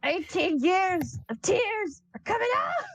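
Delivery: high, slow, crying shout; wailing cry. Acted. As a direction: wail it as years of tears burst out. Zapiel wailing out years of tears.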